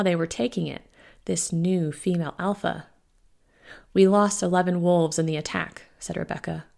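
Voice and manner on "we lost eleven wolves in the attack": firm, hard-edged voice; hard edge. Acted. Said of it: "a hard edge to her voice".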